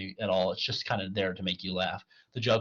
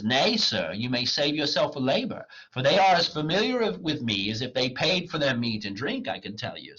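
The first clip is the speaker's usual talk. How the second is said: theatrical comic dialogue; dramatic play reading; 5 semitones higher, 4 dB louder than usual. Acted. Wagner mocks the poor clown, declaimed. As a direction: declaim the old lines with lively swings.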